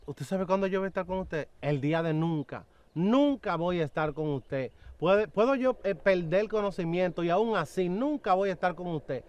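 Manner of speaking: retold refusal, emphatic and rising in force; firm refusal. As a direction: refuse him outright, leaning on NUNCA.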